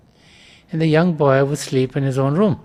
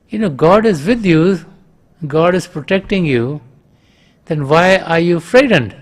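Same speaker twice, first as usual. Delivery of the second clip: calling back; 3 semitones higher, 4 dB louder than usual. Retold or imitated. Father calls back questioning.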